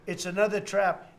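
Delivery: imitating screaming. Consultant screaming about another trap, mock screaming. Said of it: "this guy's screaming".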